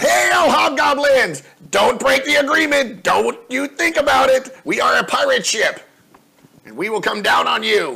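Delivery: very high, loud, calling yell. On a pirate ship, calling out to hobgoblins from the deck, yelling out. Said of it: "go to the deck and yell out".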